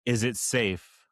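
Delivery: slow, sinister question; sinister interrogator. Acted. Marathon Man quote.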